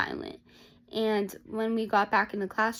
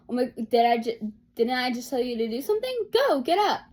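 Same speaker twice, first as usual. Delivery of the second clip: retold yell; 2 semitones higher, 6 dB louder than usual. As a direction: snap at the student louder and louder until the last order. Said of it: "the teacher just yelled at her again".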